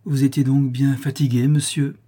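a light smiling question; amused, smiling question. Acted. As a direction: tease him gently with a smile. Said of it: "dit-elle en souriant".

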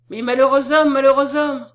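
forceful, panicked exclamation; crying out. A narrator's reading. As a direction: exclaim in terror for his safety. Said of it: "s'écria-t-elle".

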